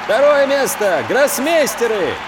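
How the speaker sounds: high, ringing announcement; town crier. Acted. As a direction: call it out like a herald. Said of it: "зычно объявляет".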